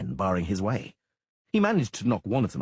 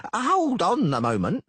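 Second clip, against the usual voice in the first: call to stop; 12 semitones higher, 6 dB louder, slower than usual. Acted. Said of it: "Dainty said".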